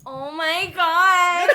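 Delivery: slow, laughing exclamation; laughing surprise. Real, not acted. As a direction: gasp it out mid-laugh, delighted. Surprised by job offer.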